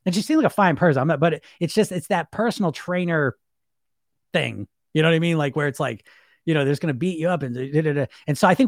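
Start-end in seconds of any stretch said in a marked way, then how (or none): none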